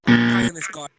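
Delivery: choppy garbled call audio; breaking-up call. Real, not acted. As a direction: voice dropping in and out. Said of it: "Stu, you're breaking up".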